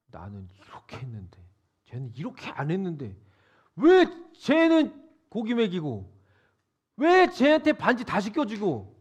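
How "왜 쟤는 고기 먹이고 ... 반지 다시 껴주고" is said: louder, indignant complaint; a son protesting unfair treatment; mock grievance. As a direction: play the resentful older brother. Voicing the elder son's grievance.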